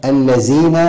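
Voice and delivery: slow الذين said as "allazīna"; wrong z for dhāl. Shown as a demonstration. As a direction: keep the tongue in on الذين, giving a z. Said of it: "خطأ جلي".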